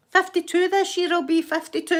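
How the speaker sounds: high, real laughing exclamation; laughing disbelief. Real, not acted. Woman laughing at herself being fifty-two, high and amused. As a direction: pitch it up and break into laughter. Laughs at her own age.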